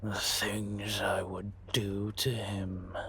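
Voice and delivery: slow, half-whispered threat; slow, breathy, menacing musing; dark relish. Acted. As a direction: linger on each word and let it trail into breath. Relishing what he would do.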